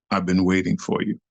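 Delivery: low, measured menace; acted-out villainous low line; ominous challenge. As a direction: drop low like a rival calling you out. Rival's challenge, first low take.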